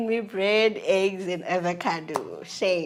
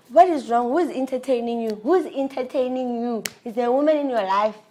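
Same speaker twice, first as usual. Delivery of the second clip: nagging. Retold or imitated.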